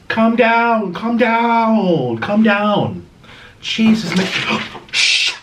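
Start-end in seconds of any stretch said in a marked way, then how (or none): 0.1-4.3 higher, louder call to settle the dog; firm raised voice repeated; loud scolding. Real, not acted. To excited dog Jasper, calling loudly.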